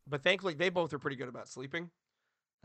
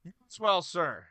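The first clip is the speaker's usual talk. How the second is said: gravelly voice; 6 semitones higher, 10 dB louder, much slower than usual. Real, not acted. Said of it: "I apologize for the gravelly voice".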